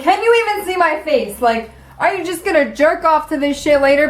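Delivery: high-pitched indignant retelling. Retold or imitated. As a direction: act out an incredulous challenge. Acted indignant challenge to photographer.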